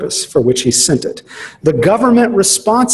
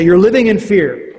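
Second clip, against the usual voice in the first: self-righteous rebuke; 4 semitones higher, 3 dB louder than usual. Retold or imitated. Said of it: "in a very self-righteous way".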